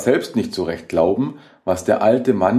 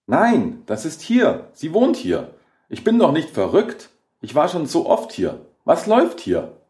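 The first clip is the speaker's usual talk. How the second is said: high-pitched frantic insistence; voice almost cracking; 8 semitones higher than usual. A narrator's reading. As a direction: protest in a high, near-hysterical voice. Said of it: "Ellens Stimme überschlug sich fast".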